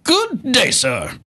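hammed-up high Good day, sir; theatrical catchphrase. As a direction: deliver it like a huffy gentleman. Cohost echoes catchphrase theatrically.

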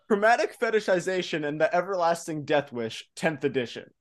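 straight-faced, suppressing laughter; trying not to smile. Real, not acted. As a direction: keep it deadpan, holding back a grin. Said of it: "so hard to keep a straight face".

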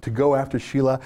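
barely holding back his anger; real anger. Real, not acted. Host admitting anger to viewers, heated and fast. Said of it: "I'm sorry I'm so angry".

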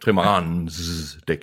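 "Trimaranens" slowed with a long final s; "Trimaranens" said slowly, hissing out the last s; exaggerated genitive ending. Shown as a demonstration. Corrects co-reader's pronunciation of word.

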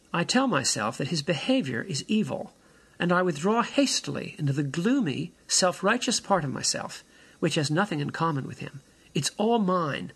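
measured reading aloud with deliberate pauses; literary reading. Acted. Speaker reads a character's journal about his brother, measured reading. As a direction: read a journal passage phrase by phrase.

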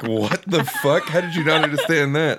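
laughing exasperation. Retold or imitated. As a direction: giggle through disbelief.

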